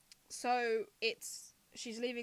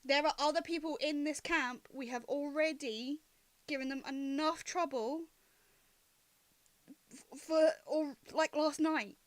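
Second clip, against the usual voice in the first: louder, slightly raised, firm reproach; scolding companion; 4 semitones higher, 5 dB louder than usual. Acted. Loma stops Winston disturbing the camp, firm scolding. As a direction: tell them off and appeal to their conscience.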